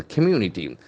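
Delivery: community with the accent on MU; second-syllable stress. Shown as a demonstration. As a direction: lean on the second syllable, com-MU-ni-ty. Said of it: "The accent falls on the second syllable".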